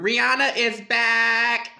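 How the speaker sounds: loud, high and slow; excited announcement. Real, not acted. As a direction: announce it like big news. Announcing big news.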